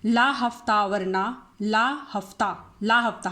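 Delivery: slow, mock-menacing demand for money; hammed-up goon voice, slow; mock extortion demand. Shown as a demonstration. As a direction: lean on it like a street thug asking for protection money. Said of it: "इसकी trick क्या है".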